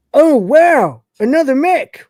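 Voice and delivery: high, loud country hick drawl. Retold or imitated. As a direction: play a dim, cheerful rural hick robot. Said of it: "he's got this sort of hick voice".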